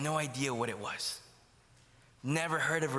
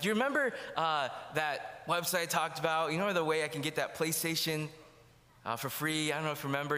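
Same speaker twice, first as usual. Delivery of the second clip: put-on wheedling teen. Teen sweet-talking dad for PlayStation.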